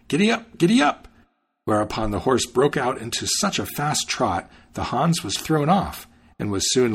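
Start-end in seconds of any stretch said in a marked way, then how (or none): 0.1-1.1 giddy up yelled high and loud, rising; shouted. A narrator's reading. Hans spurring his new horse to go faster, rising shout. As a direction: urge the horse faster with a bright yell. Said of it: "he clicked his tongue and shouted".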